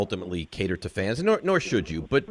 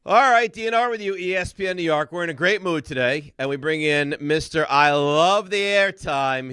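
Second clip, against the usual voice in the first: teasing radio intro; 6 semitones higher than usual. Real, not acted. Host bringing in the Giants beat reporter, mock-grand radio intro.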